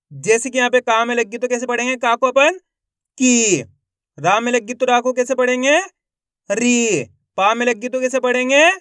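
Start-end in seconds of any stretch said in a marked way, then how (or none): 3.2-3.6 "की" with the ee held long; "की" as one sustained syllable; drawn-out long vowel. Shown as a demonstration. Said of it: "खींच खींच के उच्चारण करना है". 6.5-7.0 "री" with the ee held long; "री" as one sustained syllable; drawn-out long vowel. Shown as a demonstration. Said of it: "खींच खींच के उच्चारण करना है".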